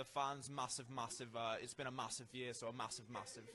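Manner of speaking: light put-on British accent, leaning on massive. Speaker puts on a voice for the others listening: British accent. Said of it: "how's the British accent this side".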